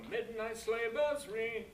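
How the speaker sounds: high, slow, each word of "Midnight sleigh bells ring" given weight; overweighted demonstration. Shown as a demonstration. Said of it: "But if we go".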